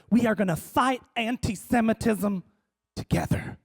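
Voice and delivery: lightly voiced earnest evangelical; measured declaration, hushed on the last word; hint of Southern evangelical. Evangelical pledging support to the comedian, mildly solemn. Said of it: "these were, like, Southern evangelicals".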